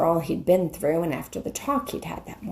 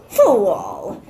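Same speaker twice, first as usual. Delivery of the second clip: louder, savage snarled insult; 6 dB louder than usual. Acted. The witch snarling at the bull-man. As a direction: spit it with a snarling smile. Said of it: "with a savage smile that was almost a snarl".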